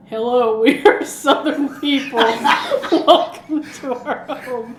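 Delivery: hammed-up Southern accent, breaking into laughs. Co-host imitates Superman's mom and dad, exaggerated Southern accent. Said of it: "I love your Southern accent".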